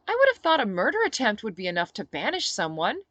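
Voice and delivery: a hint of deadpan Phoenix. Phoenix voiced in dialogue.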